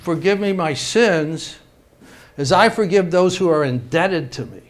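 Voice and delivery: slowing down to mean each word; unhurried, thoughtful prayer; slow, deliberate prayer. Shown as a demonstration. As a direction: pray it slowly, not rattling through. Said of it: "But when I stop and say".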